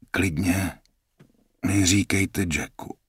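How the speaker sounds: tiše zasípané; zasípej to slabě a tiše; wheezed. Acted. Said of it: "zasýpal jsem". (zraněný Jack tiše zasípe na sestřičku)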